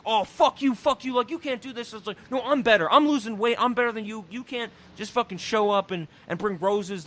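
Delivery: hammed-up kids fighting; lightly voiced teen quarrel; mock argument. Kids' fight acted out.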